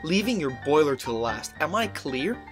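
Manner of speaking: firm, measured warning; stern threat. Acted. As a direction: lay down the law. Stark threatens engine.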